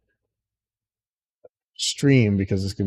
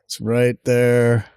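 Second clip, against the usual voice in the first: slow, savoring "there"; dawning joy; much slower than usual. Real, not acted. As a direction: drag out "there" in happy disbelief. Repeats the find, savoring it.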